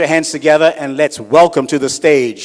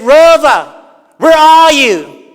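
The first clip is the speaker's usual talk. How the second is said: high, loud, slow shout up to the roof; calling the dog; 13 semitones higher, 11 dB louder, much slower than usual. Acted. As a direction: call out to the dog far above.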